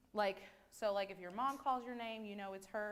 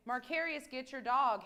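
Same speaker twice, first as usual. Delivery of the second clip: calling across the house, louder; retold call to husband; 5 dB louder than usual. Wife asks husband to get the dog, calling. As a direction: call out to him to fetch the dog. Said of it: "if I say".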